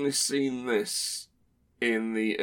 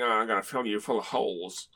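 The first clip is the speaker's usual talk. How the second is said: bad cowboy accent; 3 semitones lower than usual. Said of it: "Instead of saying".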